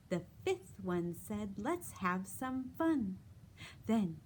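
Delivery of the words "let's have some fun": playful pumpkin voice. Acted. Pumpkin voice in finger play.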